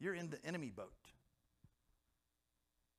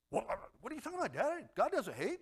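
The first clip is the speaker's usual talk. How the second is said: daughter protesting; 7 semitones higher than usual. Retold or imitated. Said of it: "when I told my daughter".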